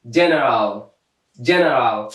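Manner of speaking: low, careful demo of "جنرال" with initial J; soft G as J. Shown as a demonstration. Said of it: "صدای جیم افاده کرده".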